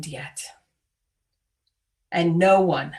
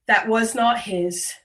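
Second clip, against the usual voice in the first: prayer. Acted. Leading the congregation in confession, solemn prayer.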